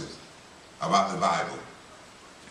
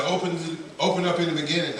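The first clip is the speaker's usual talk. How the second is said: put-on lightly raised, quicker old lady voice; a hint of a brisk old lady pointing the way; brisk old lady, lightly voiced; old lady instructing; 4 semitones higher, faster than usual.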